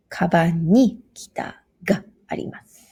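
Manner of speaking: "ni" and "ga" punched and set apart; particles highlighted. Shown as a demonstration. Teacher highlighting particles for learners, stress on "ni" and "ga". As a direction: lean on "ni" and "ga" in "Kaban ni kita ga arimasu". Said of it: "what we need to highlight in this sentence is the particles".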